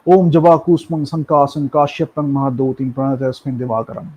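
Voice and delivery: Sanskrit mantra said straight through, without intonation; plain recitation. Shown as a demonstration. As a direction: recite the mantra simply, no modulation. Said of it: "আমি just এরমভাবে বলে ফেললাম". (সুর ছাড়া সাধারণ মন্ত্রপাঠ)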